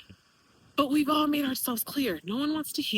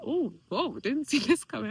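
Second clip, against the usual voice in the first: surprised laugh. Real, not acted. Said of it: "I didn't know this was gonna cry".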